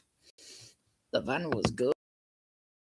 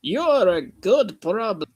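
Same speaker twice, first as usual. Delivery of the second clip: angry twin; 6 semitones higher, 5 dB louder than usual. Acted. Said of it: "His twin Donald was angry".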